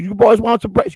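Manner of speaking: high Southern hostess voice; southern old lady. Retold or imitated. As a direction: imitate an old Southern lady offering hospitality. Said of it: "a nice old lady answered the door with a southern accent".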